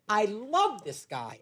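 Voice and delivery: mouthing. Retold or imitated. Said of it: "he went just like this".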